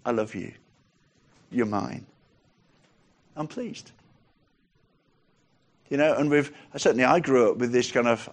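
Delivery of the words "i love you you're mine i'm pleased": soft, unhurried, with pauses; tender reassurance. Acted. God answering someone who feels unworthy, softly reassuring. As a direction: let each short assurance settle gently.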